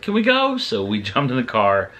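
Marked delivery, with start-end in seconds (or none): 0.0-0.6 very high, eager little plea; mock high-pitched begging question; imitating excited wife. Husband retelling wife's rally request, imitating her. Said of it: "So she's like".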